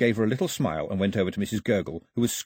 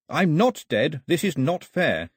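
put-on boy's protest, slightly higher; Mao protesting; 6 semitones higher, slower than usual. A narrator's reading. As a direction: Mao pushing back at unfairness.

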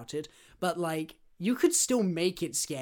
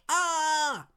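short hammed-up "Ah!" of horror, higher pitch; mock horrified scream; 11 semitones higher, 4 dB louder than usual. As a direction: gasp out a pretend scream of terror.

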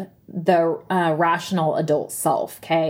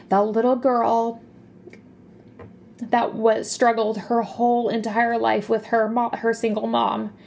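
on the edge of tears, slightly higher; holding back real tears while talking; voice breaking; 3 semitones higher than usual. Real, not acted. Recalling a poor childhood to viewers, near tears. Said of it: "oh my gosh, I'm gonna cry".

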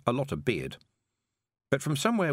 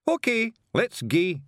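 high, loud Scots snarl; snarling Feegle; 11 semitones higher, 5 dB louder, slower than usual. Acted. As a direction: threaten your own knees.

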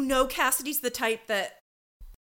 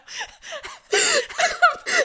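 burst of laughter; 7 dB louder than usual. Real, not acted. Absurd doll brunch scenario.

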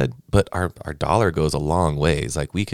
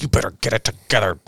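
quick, higher mock scolding teacher voice; mean teacher; 4 semitones higher, faster than usual. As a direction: imitate a teacher scolding you as he pokes. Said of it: "he was just so mean to me".

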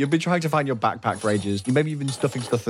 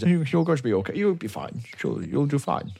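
fussing mum; 4 semitones higher than usual. Acted. Mum fussing over departing child.

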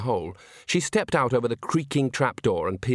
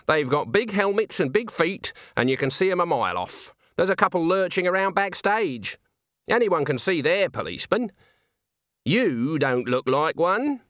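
put-on higher-pitched old woman's character voice; Granny; 7 semitones higher than usual. A narrator's reading. Old witch doubts a man is a policeman, scornful. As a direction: sceptical old witch, knowing better. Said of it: "said Granny".

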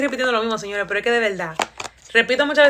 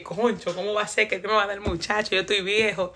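mild disappointment; 2 semitones lower, 4 dB quieter than usual. Retold or imitated. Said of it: "decepcionado, di que pensativo".

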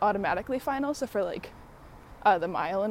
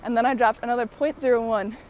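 excited; 2 semitones higher, 5 dB louder than usual. Real, not acted. Excited recounting time drops.

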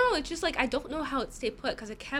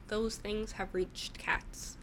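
slow whispered aside; 5 dB quieter, much slower than usual. Real, not acted. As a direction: whisper it slowly.

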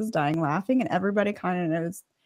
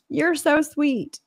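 mock sweet; 6 semitones higher, much slower than usual. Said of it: "I'm gonna switch it up".

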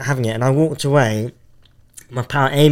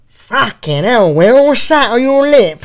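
mocking coworker; 10 semitones higher, 6 dB louder, slower than usual. Coworker mocking his moustache.

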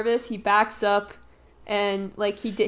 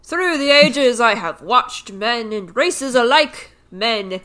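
tree voice; 2 semitones higher, 6 dB louder than usual. Acted. Reads the tree's grand speech.

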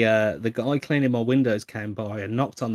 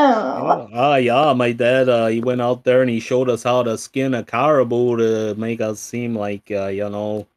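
put-on a loose, loud stab at a Minnesota dad accent; terrible Minnesota accent; 6 dB louder than usual. Cohost mocking his dad in a bad Minnesota accent. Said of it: "what a terrible impression of, of, like, Minnesota".

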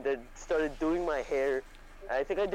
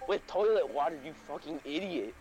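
mock pissed mom. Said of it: "she was, like, pissed at me".

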